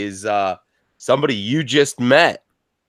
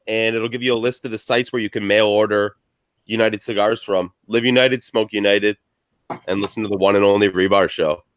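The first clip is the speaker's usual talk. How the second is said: ad read. Acted. Sponsor ad read.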